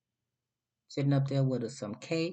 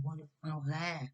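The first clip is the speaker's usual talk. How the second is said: puzzled aside; 5 semitones higher, 7 dB quieter than usual. Retold or imitated. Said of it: "I'm like".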